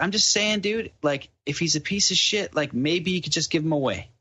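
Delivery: imitated appeasing tone; retold placating. Placating an aggressive drunk man.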